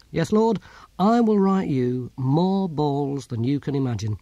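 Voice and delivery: lightly voiced submission, drawn out at the end; slowing, deferential character voice; humbly obedient old philosopher. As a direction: promise obediently to your lord.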